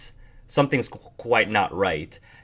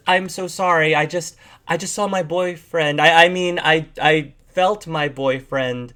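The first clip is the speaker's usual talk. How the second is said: higher, stumbling excuse; flustered bat woman; 6 semitones higher than usual. Acted. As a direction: make up a lie on the spot.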